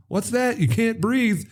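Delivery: Cagney mocking the man in the trunk, high and sly; taunting gangster. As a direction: toy with the guy cruelly, voice way up. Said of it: "gangster taunting man in trunk".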